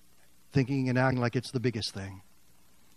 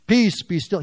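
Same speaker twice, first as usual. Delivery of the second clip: louder firm command to the storm; calm the storm with authority; 4 semitones higher, 5 dB louder than usual. Acted. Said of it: "Remember what he said?".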